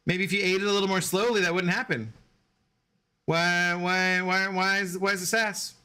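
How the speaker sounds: playful scolding of a sassy dog. Real, not acted. Owner teasing his dog about her sass, in high baby talk.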